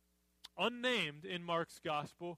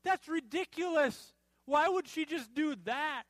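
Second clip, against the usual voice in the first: higher-pitched mock disbelief; raised voice of acted indignation; indignant; 7 semitones higher, 4 dB louder than usual. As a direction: act out a scandalized onlooker. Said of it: "said to themselves indignantly".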